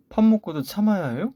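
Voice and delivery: high, loud, indignant protest; indignant outburst. Acted. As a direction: burst out, fed up with being blamed. Wife argues with sister-in-law.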